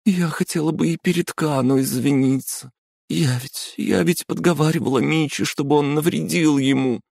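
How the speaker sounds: высокий девичий голос с признанием; кается подруге; Hataru, guilty. Acted. Hataru voiced high. (Хатару признаётся подруге виновато)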